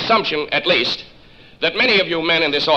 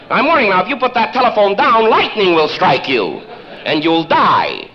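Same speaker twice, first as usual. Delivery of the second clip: mock threat. Caller playing God to scare the toddler, ominous.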